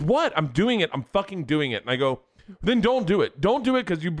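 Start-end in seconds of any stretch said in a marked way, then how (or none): 0.0-1.8 loud, high burst easing down; acted exasperation. Acted quarrel, wife protests. 2.6-4.2 high, loud retort; acted angry retort. Acted quarrel, husband fires back.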